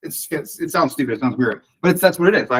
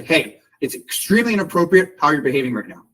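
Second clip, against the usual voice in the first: controlled assertive anger. Shown as a demonstration. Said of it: "I'm acting right now, but you can tell I'm pissed off".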